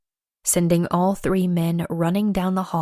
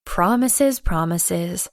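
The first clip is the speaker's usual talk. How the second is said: sassy teasing; slower than usual. Acted. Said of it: "I gave him lip".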